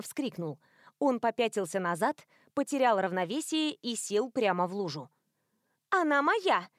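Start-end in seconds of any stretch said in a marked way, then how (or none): 5.9-6.7 higher, fierce possessive cry; wide-eyed claim. A narrator's reading. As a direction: claim the stars as hers. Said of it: "сказала Стиви, выпучив глаза".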